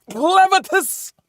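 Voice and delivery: high, slow drawn-out shout of the name; drawn-out call. Retold or imitated. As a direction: stretch the name out as a long call. Repeats name slower.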